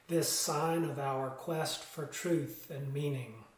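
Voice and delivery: calm, solemn reading that fades out at the close; liturgical reading. Acted. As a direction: lead the congregation in measured words. Reads chalice lighting words.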